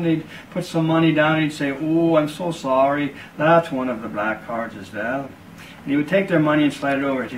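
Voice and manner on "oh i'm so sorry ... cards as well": a sly, hammed-up sorry; mock apology. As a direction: fake sorrow, slow on the "Oh". Cardsharp feigns regret, taking money.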